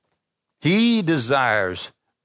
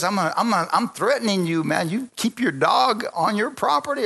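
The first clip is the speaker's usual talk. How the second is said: mock yelling neighbor; 9 semitones higher than usual. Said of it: "neighbor that screams and yells at you".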